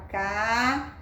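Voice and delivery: CASEIRO as three mouth openings, CA, ZEI, RO; long pauses between syllables of CASEIRO. Shown as a demonstration. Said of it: "você abre a boca três vezes".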